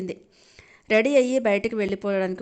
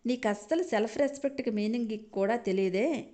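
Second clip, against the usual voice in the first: ridiculing; 4 semitones higher than usual. Acted. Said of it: "అని ఎద్దేవా చేసింది వాసంతి".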